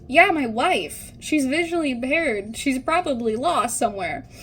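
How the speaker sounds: a husband raising his voice to be sure he's heard; husband's urgent call. Retold or imitated. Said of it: "And he goes".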